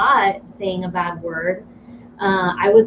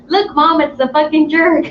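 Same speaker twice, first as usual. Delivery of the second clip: put-on excited toddler; 6 semitones higher, 4 dB louder than usual. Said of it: "Thomas says".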